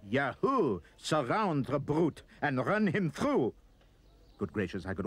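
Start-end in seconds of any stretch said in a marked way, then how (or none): 0.1-3.5 louder, higher, slow war whoop; rally the mob to charge; a hammed-up mob yelling attack; mob battle cry. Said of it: "They screamed".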